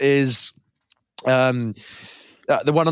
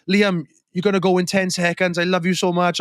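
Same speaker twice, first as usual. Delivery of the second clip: higher-pitched imitation of a dramatic goodbye; mock tearful farewell; 5 semitones higher than usual. Older sister hugging her brother before the countdown, mock farewell. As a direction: play the fake farewell in earnest.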